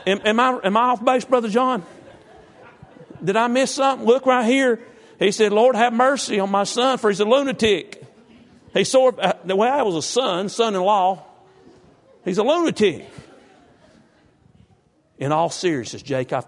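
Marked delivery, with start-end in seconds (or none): 0.1-5.5 high, loud, laughing through the words; cracking up at his own joke; loud, high, giggling excitement; laughing loudly. Real, not acted. Preacher cracks up over his joke. 5.5-8.0 high, loud, laughing verse quote; loud, high, laughing scripture quote. Real, not acted. 8.7-13.1 high, loud, laughing through the words; cracking up at his own joke; loud, high, giggling excitement; laughing loudly. Real, not acted. Preacher cracks up over his joke.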